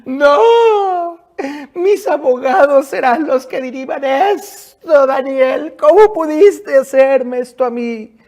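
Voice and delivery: loud, high wailing telenovela diva; gasping soap opera drama. Acted. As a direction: sob it out like a soap opera heroine. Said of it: "la plañidera favorita de todas las telenovelas, se tira al suelo y rueda diciendo".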